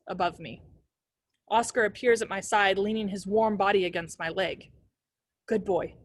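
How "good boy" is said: breathless. A narrator's reading. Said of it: "My voice comes out breathless".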